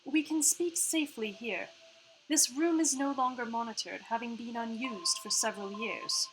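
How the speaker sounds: lightly put-on Australian-tinged accent, softly delivered; part-Australian accent. Hologram tells players the room is safe, part-Australian accent. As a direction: play Iris's part-Australian accent, composed. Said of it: "so sorry about her accent right now".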